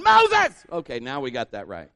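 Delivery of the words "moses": high, very loud cry of a crowd member; piercing full-force yell; screaming. Acted. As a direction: scream the name for help. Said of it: "And the people are going".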